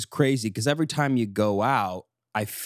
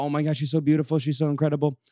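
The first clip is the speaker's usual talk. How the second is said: higher-pitched mock gushing; awed wedding guests; 4 semitones higher, faster than usual. Wedding guests admiring the bride walking in, mock awe. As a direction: gush like an awestruck guest. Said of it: "everyone's in awe".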